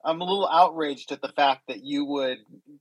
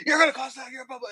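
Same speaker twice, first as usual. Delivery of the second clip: retelling the honking driver's rant, a mild mock yell; mock angry yell; 13 semitones higher than usual. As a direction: play the angry driver ranting, half-hearted. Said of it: "he yells at me".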